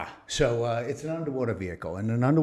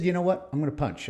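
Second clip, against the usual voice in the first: much higher, louder defiant announcement; decisive retort; 7 semitones higher, 4 dB louder than usual. Retold or imitated. Quitting the Navy, defiant. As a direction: slam the decision down. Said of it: "I said".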